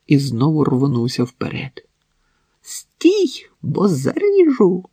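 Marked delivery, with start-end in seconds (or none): 2.6-4.8 very high, piercing scream; hysterical cry. Acted. Wife screams at husband lunging toward her, hysterical. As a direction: shriek it in panic. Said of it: "істерично крикнула Марина".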